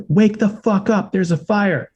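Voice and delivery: high, slow mock yell of a panicked neighbor; imitating a neighbor's yell. Neighbor yelling the warning down the hallway, a retold high yell. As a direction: bellow the warning like the guy pounding doors. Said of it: "And he's yelling this".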